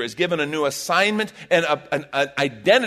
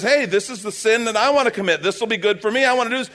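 tempting flesh voice; 7 semitones higher, 6 dB louder than usual. Retold or imitated. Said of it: "my flesh says".

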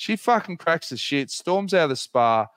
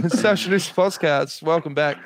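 mock big show intro; 3 semitones higher than usual. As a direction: launch the show with a jokey bang.

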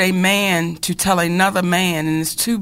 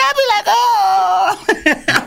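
high, fast, laughing squeal; laughing excitedly. Real, not acted. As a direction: blurt it out while cracking up. Cohost cracking up at teasing.

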